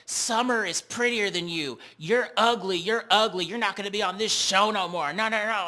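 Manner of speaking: high, loud catty jabs; mocking Natalie's insults. Recapper voicing Natalie insulting Scotty, high, loud and catty. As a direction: sneer it at her like a mean girl. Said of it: "She tells Scotty".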